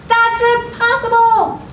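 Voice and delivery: high-pitched mock disbelief; incredulous protest. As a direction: exclaim it as a dramatic doubter. Acted doubter's inner protest.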